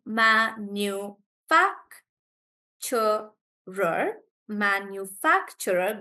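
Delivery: manufacturer with FAC stressed. Shown as a demonstration. Teacher showing students manufacturer, stress on fac. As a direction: land the stress on the third syllable of manufacturer, "fac". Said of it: "so the stress is on fac".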